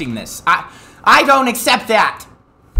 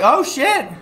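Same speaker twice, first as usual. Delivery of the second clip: mock dramatic shock; 5 semitones higher than usual. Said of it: "I was like".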